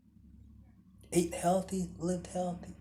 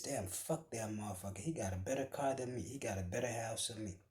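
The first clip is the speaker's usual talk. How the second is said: jealous rich man; 4 semitones lower, 5 dB quieter, faster than usual. Retold or imitated. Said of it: "looks over at his neighbor and says".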